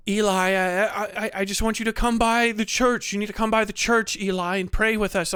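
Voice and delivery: lightly voiced, level pleading preacher; a hint of a meek churchman coaxing; preacher plea. Preacher asking Eli to come pray, mild pleading. Movie character impression, There Will Be Blood.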